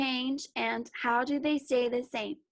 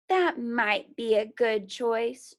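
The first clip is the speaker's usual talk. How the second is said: decided; 4 dB louder, slower than usual. Acted. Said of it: "Troy decided".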